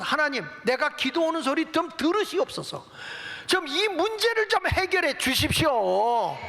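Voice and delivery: high, building plea to God; earnest prayer, demonstrated. Shown as a demonstration. Preacher modelling a prayer for the congregation, earnestly pleading. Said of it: "간절히 기도하십시오".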